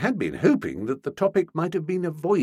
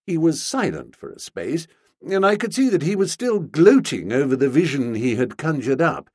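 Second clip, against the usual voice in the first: ordinary delivery, nothing marked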